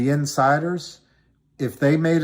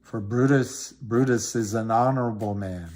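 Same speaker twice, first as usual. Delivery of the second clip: lightly recited Julius Caesar lines; Shakespeare recitation. Acted. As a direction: declaim it like a funeral speech. Recites Mark Antony speech.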